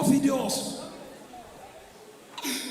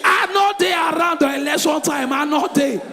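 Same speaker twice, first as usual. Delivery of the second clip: hammed-up panic; panicked denial; 3 semitones higher, 3 dB louder than usual. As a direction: protest loudly that you had no part. Frantic plea of not being around.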